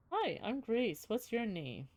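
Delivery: too calm creepy doll. Acted. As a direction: sound like a sweet doll that is secretly sinister. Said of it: "the mouth begins to move".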